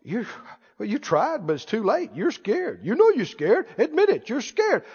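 soft, sly needling voice; quiet, insinuating enemy; taunting devil. Acted. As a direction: tempt and taunt under your voice. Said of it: "the enemy tricks people all the time".

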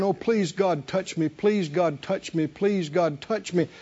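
understated imitation of people begging; mock pleading. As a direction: plead in a subdued monotone chant. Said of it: "Millions are pleading and crying".

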